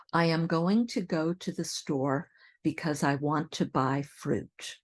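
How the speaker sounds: "going to" and "want to" said in full; full unsquished forms. Shown as a demonstration. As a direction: keep "I am", "because" and "want to" uncontracted. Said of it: "here's a sample sentence".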